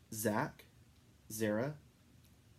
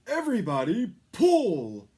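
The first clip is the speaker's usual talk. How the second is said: much higher, loud command; rousing shout; 10 semitones higher, 12 dB louder than usual. A narrator's reading. Santa shouting to his reindeer to pull. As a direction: yell to rally the team.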